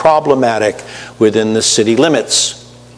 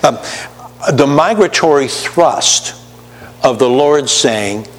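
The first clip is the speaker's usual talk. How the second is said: ordinary talk, nothing marked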